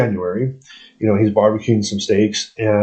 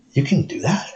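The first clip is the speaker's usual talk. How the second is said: higher, wide-eyed questions; amazed disbelief; 3 semitones higher than usual. Retold or imitated. Retold amazed question to guy.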